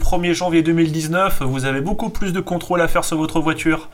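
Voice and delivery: annonceur publicitaire enjoué; voix de pub. Acted. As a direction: comme un spot radio de garage. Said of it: "ceci est un message de Fabien, le Carglass". (voix de réclame)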